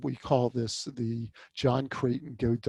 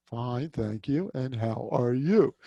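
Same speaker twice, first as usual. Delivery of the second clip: rote reply; slower than usual. Shown as a demonstration. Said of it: "And you say back".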